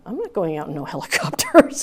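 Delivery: retold refusal breaking into a laugh. Retelling her refusal to jump from the helicopter, laughing. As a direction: laugh through the protest. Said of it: "and I'm going".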